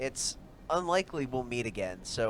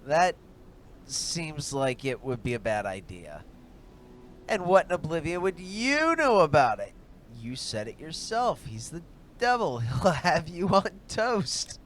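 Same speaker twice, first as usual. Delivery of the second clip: higher woman's voice, worried then indignant; companion's voice; 6 semitones higher, 9 dB louder than usual. Acted. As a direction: voice the companion, pitched up. Companion Juliana argues.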